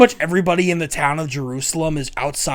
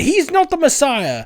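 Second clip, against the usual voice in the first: scolding mother; 11 semitones higher than usual. Retold or imitated. Mother sending crowd away.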